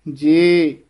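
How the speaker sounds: ਜੇ held long, then a break; slow lone ਜੇ; pause after word. Shown as a demonstration. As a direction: stretch ਜੇ and stop briefly. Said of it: "ਇੱਥੇ ਯਮਕ".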